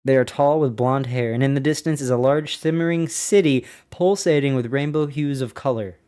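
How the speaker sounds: measured, documentary reading voice; diary reading. Acted. Podcaster reads an admiral's diary to listeners, in a steady narrating voice. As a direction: read the flight log like a narrator.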